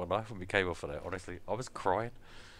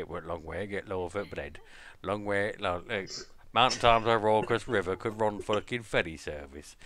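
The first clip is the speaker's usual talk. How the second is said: Yorkshire grandad; 3 semitones lower than usual. Retold or imitated. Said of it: "typical Yorkshire thing that Grandad always used to say".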